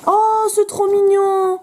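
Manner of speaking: aigu, traînant, fond de tendresse; attendrissement. Real, not acted. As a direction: craque devant un dessin trop mignon. S'attendrit devant un dessin. (attendrie, voix perchée)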